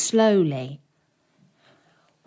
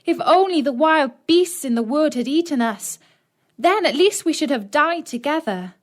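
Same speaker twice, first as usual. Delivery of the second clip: put-on tearful girl; 7 semitones higher, 4 dB louder than usual. A narrator's reading. Gretel weeping over fate.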